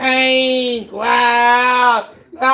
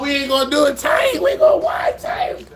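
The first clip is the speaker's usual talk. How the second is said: angry shouting; 4 semitones higher than usual. Real, not acted. Streamer threatening the hunters over Tank, angry shouting. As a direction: bark the threats at the screen.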